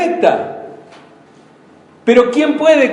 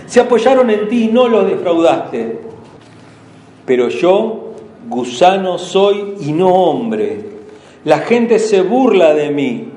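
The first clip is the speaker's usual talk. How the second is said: scripture reading. Acted. Pastor reading the psalm to the congregation, solemn lament. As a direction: read the psalm as Christ's lament.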